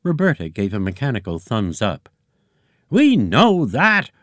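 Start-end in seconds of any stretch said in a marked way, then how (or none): 2.9-4.1 loud, high, slow roar. A narrator's reading. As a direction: roar it like an angry egg boss. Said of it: "roared Eggy Senior".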